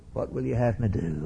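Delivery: quiet, broken surrender; Paul, struck down, asks the Lord, softly broken. Acted. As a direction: let the voice sink, a humbled plea. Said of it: "Oh, Paul's broken now".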